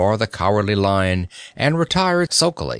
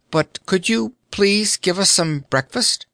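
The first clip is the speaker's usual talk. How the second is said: put-on high polite girl voice; polite request; 9 semitones higher than usual. A narrator's reading. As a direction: ask sweetly and politely. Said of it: "said Dorothy politely".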